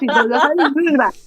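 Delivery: mock Brooklyn New Yorker; lightly put-on Brooklyn accent. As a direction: imitate somebody from Brooklyn. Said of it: "somebody from Brooklyn is like".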